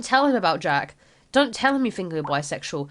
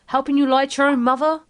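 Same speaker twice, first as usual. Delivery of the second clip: indignant scolding; 5 semitones higher, 5 dB louder, faster than usual. Acted. Mother scolding son.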